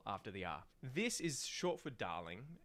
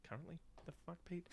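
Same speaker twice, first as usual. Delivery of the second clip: mock outrage; 7 semitones higher, 9 dB quieter, faster than usual. Mock outraged reply to himself.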